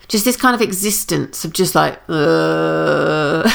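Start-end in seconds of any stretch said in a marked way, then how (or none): 2.1-3.5 zombie groan. Pretend. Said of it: "I'm sure you didn't need a zombie sound in your ear today".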